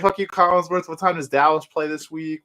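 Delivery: lightly imitated rowdy fan; mock heckling. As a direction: heckle like a fan going off on him. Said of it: "just going off".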